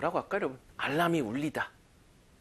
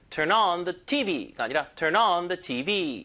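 slow, stress moved onto the T V; much slower than usual. Shown as a demonstration. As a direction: push the weight onto T V. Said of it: "강세를 주로 뒤에다 조금 더 줘요".

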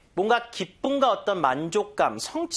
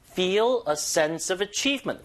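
slow model phrase with "Feel" and "achievement" stressed; marked stress; 3 semitones higher, much slower than usual. Shown as a demonstration. Teacher models before listening, stressing "Feel" and "achievement". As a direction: lean on "Feel", then on the middle of "achievement". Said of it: "강세 여닫아주시고".

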